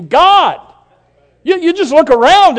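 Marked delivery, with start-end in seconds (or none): 0.0-0.6 God called out loud and high; shouted God. Pretend. Preacher voicing the stars shouting God, loud. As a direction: let creation shout it. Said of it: "it's screaming at you".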